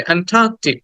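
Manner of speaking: "অ্যান্টার্কটিক" with a long "টা"; drawn-out vowel. Shown as a demonstration. Teacher telling students to stretch it, long "টা". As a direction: hold the "টা" in "অ্যান্টার্কটিক". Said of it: "এই টাটাকে একটু টেনে".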